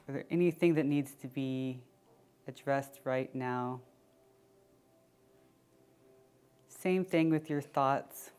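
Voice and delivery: unhurried check-in with body and breath; guided meditation. Acted. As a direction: ease them inward, leaving long pauses.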